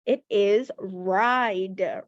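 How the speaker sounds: It is ride, stretched very slowly; slow model word. Shown as a demonstration. Teacher slowly modeling the word ride for young students. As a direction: draw out "ride" slowly for the kids. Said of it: "do you remember what the word was?".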